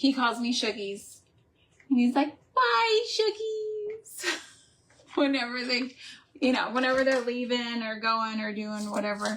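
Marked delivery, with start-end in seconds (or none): 2.5-4.4 put-on tiny, very high little child voice. Imitating a friend's little grandson saying goodbye, in a little boy's voice. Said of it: "his little voice".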